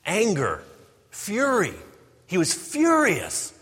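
building to a loud, high cry of fury; rising fury. Shown as a demonstration. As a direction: climb from anger to a furious peak. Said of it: "It means rage".

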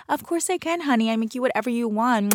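playfully sweet-talking bartender; obliging bartender. Pretend. Acts out obliging reply to customer.

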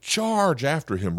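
high, slow battle cry; rally the charge as young David; David charging. Retold or imitated. David charging Goliath, a high, slow battle cry. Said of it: "And David's like".

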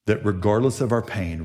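usual speaking voice

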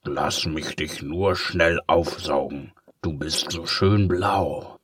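slow, lightly voiced sly villain; wheedle, a hint of menace; lightly oily tempter. Villain coaxing the blot.

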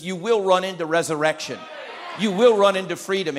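ringing shout of promise; preaching climax. Acted. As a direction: call it out over the crowd.

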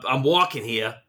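a light, hammed-up New York accent. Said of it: "that's my best New York accent".

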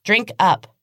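high, loud unhinged shriek; shrill, out of control. Acted. Evelyn announcing the rules to Casey, shrill and wild. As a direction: let the voice crack wild. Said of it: "her voice shrill and out of control".

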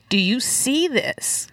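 slow, drawn-out pleading question; retold heart cry. Speaker asks God to look, pleading slowly. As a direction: plead slowly, stretching the key word. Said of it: "this was this heart cry of".

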